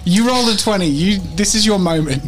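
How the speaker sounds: high, thrilled hype for a natural twenty; excited. Real, not acted. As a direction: cheer them on with high energy. Hyping a big dice roll.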